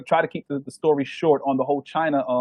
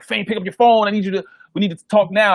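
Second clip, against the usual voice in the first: mock urgent call; 4 semitones higher, 4 dB louder than usual. Manager calling him urgently.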